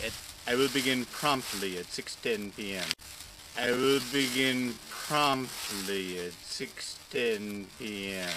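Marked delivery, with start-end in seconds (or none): 3.6-8.3 spelled out slowly; slow it right down for clarity; slow and deliberate. Shown as a demonstration. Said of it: "repeated slower".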